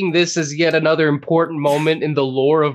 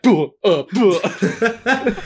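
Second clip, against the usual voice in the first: mock bounce grunts; much slower than usual. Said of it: "I just get bounced against the wall, like".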